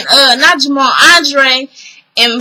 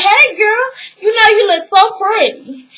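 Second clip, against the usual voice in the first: higher-pitched mock-sweet greeting; gushing greeting; 6 semitones higher than usual. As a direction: gush a compliment, voicing someone else. Voices a greeting between women.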